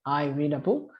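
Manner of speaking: rising question tune on book; question intonation. Shown as a demonstration. Teacher shows a question made only by intonation. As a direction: ask it with intonation alone. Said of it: "só na entonação".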